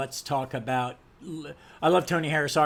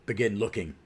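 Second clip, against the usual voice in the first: low, measured superhero voice; Batman; 4 semitones lower than usual. Acted. Comic reviewer reading out the hero's order, low hero voice. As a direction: give a short order in a lowered voice. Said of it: "That's my Batman voice".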